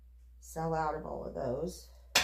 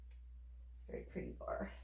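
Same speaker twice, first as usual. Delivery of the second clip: soap cutting asmr; 13 dB quieter, much faster than usual. Real, not acted. Soft aside while cutting soap.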